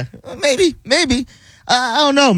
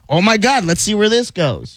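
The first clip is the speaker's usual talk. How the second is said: higher, hammed-up keenness; mock eagerness; 5 semitones higher than usual. Denying he jumped at her message, mock eager. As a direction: play at being keen on a new date. Mocks eagerness he says he lacked.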